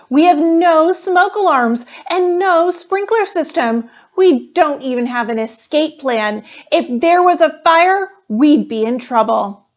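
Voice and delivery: put-on a worried kid sounding the alarm to her family; worried girl announcing. Jessica announces a problem.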